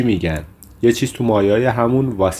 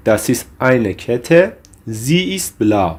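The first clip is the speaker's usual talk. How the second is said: slow, measured German for learners; slow model phrase; much slower than usual. Shown as a demonstration. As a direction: model the phrase slowly, word by word. Teacher models German example sentences.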